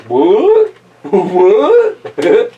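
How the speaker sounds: rising, drawn-out comic "what"; baffled zebra. Acted. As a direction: play up the bewilderment. Zebra's baffled reaction in story.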